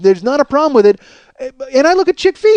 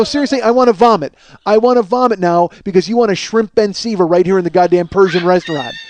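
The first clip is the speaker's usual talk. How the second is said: mock disgusted rant. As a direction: rant like he might vomit. Mock disgust rant, yell at end.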